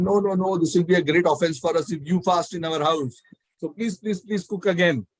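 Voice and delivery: imitating hosts urging a guest; retold pleading. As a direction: plead in mock alarm with repeated pleases. Hosts beg the priest to cook.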